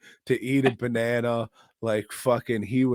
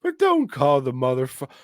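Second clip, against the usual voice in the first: high, loud, hammed-up yelling; cartoonish shouting goon; goofy character voice; 8 semitones higher, 10 dB louder than usual. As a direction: play the goofy thug at full volume. Hammed-up voice of Buns.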